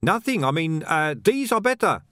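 high, flustered denial; flustered seller hiding a problem; panicked covering up. A narrator's reading. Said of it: "his face went pale".

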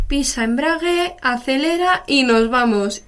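a hint of a breezy driving teacher giving orders; driving instructor. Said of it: "cuando te dice el profesor".

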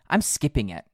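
a little out of breath; winded, catching breath; after a workout. Real, not acted. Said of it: "I'm catching my breath".

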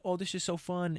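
high, giddy and mocking; high mock cheer. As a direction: chirp it like a fake-happy kid. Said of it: "they're like".

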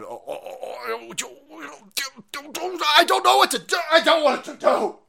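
high, loud mocking panicked whine; hammed-up helpless flustering. Mocking the panicked hosts with a high loud whine.

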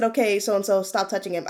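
mild, even-voiced correction; casual, unraised teacher voice; calm instruction. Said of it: "I said it in that voice".

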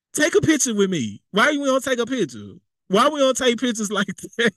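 high-pitched mock complaining partner; mock complaint. Partner nagging about not taking pictures, mock complaint. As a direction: act out a needy partner's grievance. Acting out couples' relationship complaints.

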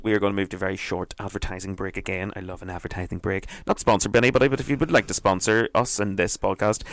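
ordinary talk

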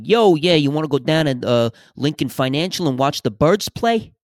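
hammed-up New York accent, obnoxious movie tough talk; overdone New York yelling-across-the-street voice; mock New York accent. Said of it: "almost like a New York accent".

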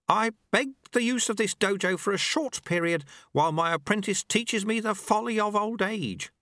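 put-on a wry old sweeper teaching his apprentice; old monk Lu Tse. A narrator's reading. Old master speaks to the dojo monks, wry.

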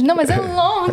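mock-frustrated insistence on the word "launch"; insistent correction. Guest replays being misheard at work, insistent correction. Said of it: "Mas você vai lanchar onde?".

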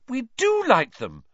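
high, eager white lie; quick fib. Acted. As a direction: say it too brightly to cover. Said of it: "lied Hermione at once".

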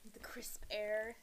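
slow, hushed, dramatic scene-setting; mock storyteller whisper. Teasing her sister's story with a slow mock whisper. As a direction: breathe it like a spooky tale opener.

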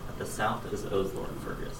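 distant, off-mic voice; far from mic. Real, not acted. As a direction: speak from across the room. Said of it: "I'm gonna step away from the mic".

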